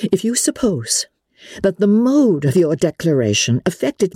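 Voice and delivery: high pitch, controlled volume, anger held in; strained composure. A narrator's reading. Elizabeth, growing angrier, refuses Darcy's declaration, trying for composure. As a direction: correct him firmly while holding anger back. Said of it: "tried to the utmost to speak with composure".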